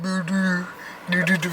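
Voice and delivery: exaggerated imitation of husband's accented name; mock accent on Dupre. Wife teasing husband about his name, mock accent. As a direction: mimic his put-on accent in nonsense syllables. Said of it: "but you be like".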